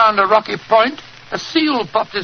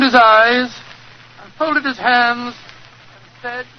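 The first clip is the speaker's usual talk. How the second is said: story narration. A narrator's reading. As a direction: lead the listener into the tale, unhurried. Watson narrates the story opening.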